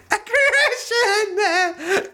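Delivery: squeaky high laughing repeat of aggression; mocking laugh. Real, not acted. Mocking the Israeli quote with a shrill laugh. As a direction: laugh at the word in disbelief.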